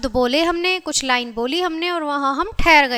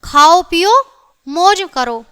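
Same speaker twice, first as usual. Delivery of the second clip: "खाओ पियो" raised in volume, break, then "मौज करो"; comma pause; 4 dB louder than usual. Shown as a demonstration. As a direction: halt after पियो before मौज करो. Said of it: "अल्प विराम आ रहा है".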